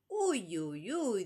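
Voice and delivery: loud, high delighted squeals. Acted. Daughter delighted by number three's proposal. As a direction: squeal it with joy. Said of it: "dijo ella contentísima".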